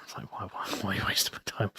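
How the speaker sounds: breathy, quick, half-laughed aside; laughing mock exasperation. Mocking a pen pal who only chats, laughing. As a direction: toss it off fast through a laugh.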